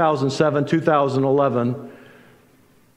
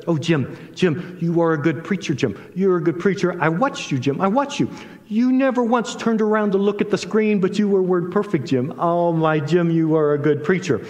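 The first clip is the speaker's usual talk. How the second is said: imitating a friend's Indian accent, higher pitched; lilting, admiring Indian-accented praise; 4 semitones higher than usual. Hindu friend praises the preacher after the service, in an Indian accent. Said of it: "he still has a distinct accent".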